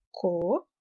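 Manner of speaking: low, measured syllable division of comentário. Shown as a demonstration. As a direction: break comentário into co, men, tá, rio with long pauses. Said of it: "se a gente fizer a separação silábica".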